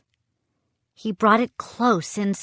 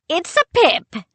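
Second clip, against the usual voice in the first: stern pirate captain; 11 semitones higher, 5 dB louder than usual. A narrator's reading. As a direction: pronounce it like a pirate judge.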